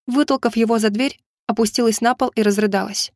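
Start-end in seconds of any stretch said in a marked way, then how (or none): none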